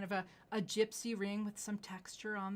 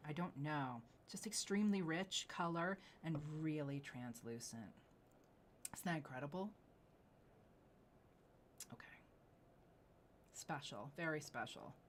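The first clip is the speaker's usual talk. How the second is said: awed whisper. Real, not acted. Host marvels at stone.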